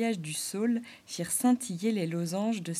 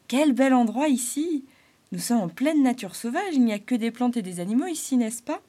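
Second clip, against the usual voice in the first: higher, louder jester voice full of wonder; Arlequin delighted; 3 semitones higher, 6 dB louder than usual. Acted. Clown admiring the mountains, higher and louder. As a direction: marvel at nature like a cheerful clown.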